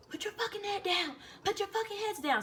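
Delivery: harsh whispered command; menacing hushed order. Retold or imitated. Drill sergeant to recruits on the bus, menacing whisper. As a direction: whisper it as a retold sergeant's threat.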